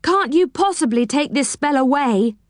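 high-pitched, plaintive appeal; groaning plea. A narrator's reading. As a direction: call on friends pleadingly, pitched high. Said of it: "he groaned".

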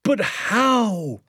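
high, urgent cry; eager father crying out for a way; cried out. Acted. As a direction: throw the question out excitedly. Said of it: "he cried".

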